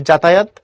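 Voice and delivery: যাতায়াত starting with a firm j; pressed j. Shown as a demonstration. Teacher showing one of two ways, যাতায়াত with j. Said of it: "তুমি এভাবে করতে পারবা".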